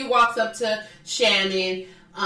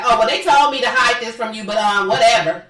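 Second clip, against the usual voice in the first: louder mock breezy tattle; imitating a careless blurt; 6 dB louder than usual. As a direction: mimic her brushing it off loudly. Voicing Kelly blurting out the secret.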